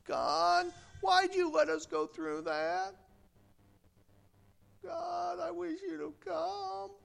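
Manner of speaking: a hushed complaint the martyrs never made; soft whining plea. Retold or imitated. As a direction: murmur it like a self-pitying prayer. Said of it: "They didn't say".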